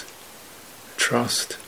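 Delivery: sparse, measured phrases with long silences between; guided meditation. Real, not acted. Teacher guiding meditators to feel openness in the body, calm meditative voice. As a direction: calmly guide them, leaving room after each phrase.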